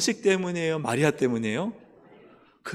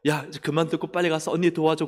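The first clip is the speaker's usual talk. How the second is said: impatient order; 4 semitones higher, 5 dB louder than usual. Pretend. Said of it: "마리아 말씀 듣는 거".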